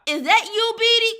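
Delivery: high, loud disbelief; as if not recognizing her; mock surprise. Asking Beatty if it's really her, loud mock surprise. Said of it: "I like".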